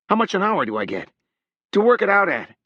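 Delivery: fairly shouting. A narrator's reading. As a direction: call out to someone walking away. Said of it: "Harrogate was fairly shouting across the space".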